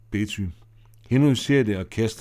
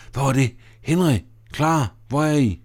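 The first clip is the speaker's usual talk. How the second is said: alarmed calling out; 4 semitones higher, 3 dB louder than usual. Acted. Lights go out, Mona calls out.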